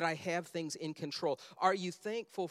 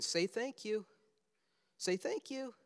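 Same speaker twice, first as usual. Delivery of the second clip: higher, singsong reminder; lightly voiced coaxing parent; parent prompting a child; 4 semitones higher than usual. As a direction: prompt a small child, pitch lifted.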